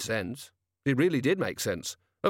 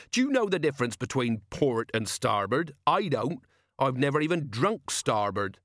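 put-on raised, lively old sailor voice; gruff old sea captain; 4 semitones higher than usual. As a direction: play the wily old ship's captain. Jenkins lecturing the captain.

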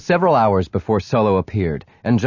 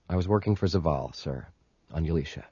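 hushed, reluctant admission; quiet; 4 semitones lower, 9 dB quieter, faster than usual. A narrator's reading. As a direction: say it low and quiet, caught out. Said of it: "then said quietly".

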